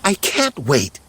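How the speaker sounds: high-pitched, excited little voice; excited exclamation. A narrator's reading. Smurfette hears they're going home, exclaiming excitedly. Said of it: "Smurfette exclaimed excitedly".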